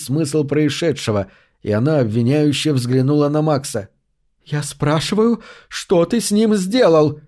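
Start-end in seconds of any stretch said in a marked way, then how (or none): 4.4-7.2 a demanding question pitched high and slow; demanding, trembling. A narrator's reading. Cassandra confronts Max over Harry, demanding and shaken. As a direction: press him hard for the answer. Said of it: "низким дрожащим голосом требовательно спросила она".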